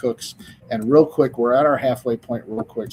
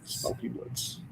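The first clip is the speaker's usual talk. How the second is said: whispered; 11 dB quieter, slower than usual. Acted. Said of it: "My, my monotone advertisement voice".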